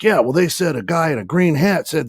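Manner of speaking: lightly mimicked high-pitched objection; mock protest. Angry little buddy chimes in, retold.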